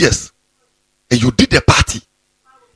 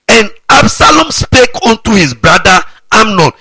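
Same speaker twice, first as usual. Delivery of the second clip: slow, high, loud proclamation of the verse; scripture shout; 7 semitones higher, 5 dB louder than usual. Acted. Pastor to congregation, a slow loud scripture proclamation. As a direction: thunder the verse out slowly like a prophet.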